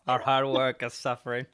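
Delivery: loud mock Brooklyn accent. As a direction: echo it back in a thick Brooklyn accent. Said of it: "my Brooklyn accent just came out".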